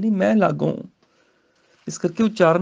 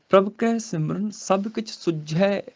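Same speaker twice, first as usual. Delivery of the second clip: slow scripture recitation; 2 semitones higher, slower than usual. Shown as a demonstration. Teacher recites the verse for students, slowly. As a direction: chant the verse slowly, rising.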